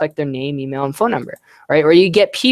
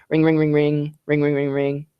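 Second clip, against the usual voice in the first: imitating phone ringing; 3 semitones lower than usual. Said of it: "So pretend we're, we're picking up the phone".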